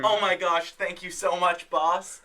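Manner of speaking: gushing with gratitude; overjoyed. Pretend. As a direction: thank him breathlessly. Rehired employee gushes.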